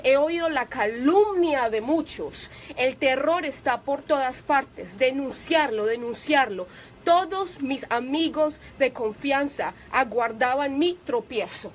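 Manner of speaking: slow, weighty reading of the verse; solemn scripture reading. Acted. Preacher reading a psalm to the congregation, slow and solemn. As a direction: read each line gravely and unhurried.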